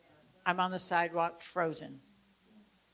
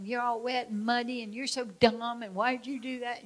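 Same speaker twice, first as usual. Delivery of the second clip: mocking taunt; 4 semitones higher than usual. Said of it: "started making fun of me and laughing".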